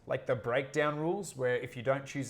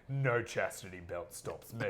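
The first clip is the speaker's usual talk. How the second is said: lightly voiced warlord boast; 5 semitones lower, 3 dB quieter than usual. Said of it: "He's just like".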